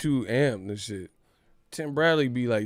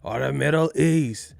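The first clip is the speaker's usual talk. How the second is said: promoter pitch; 2 semitones higher, 4 dB louder than usual. Retold or imitated. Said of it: "Bob Arum's telling him".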